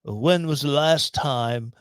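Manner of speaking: a hint of a put-on British accent; lightly posh British Johnny Depp impression; fake British accent. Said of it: "In my fake British accent".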